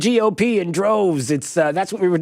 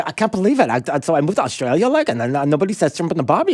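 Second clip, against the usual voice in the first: mock upset girl; faster than usual. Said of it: "the girl is like".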